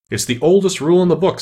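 high, loud royal insistence; insistent king. A narrator's reading. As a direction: protest it forcefully as the king. King insists against Alice's objection.

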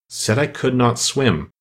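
king slowly musing over the line; slow pondering. Acted. King studies the verse for meaning, slow and musing. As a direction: weigh every word slowly. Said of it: "muttering over the verses".

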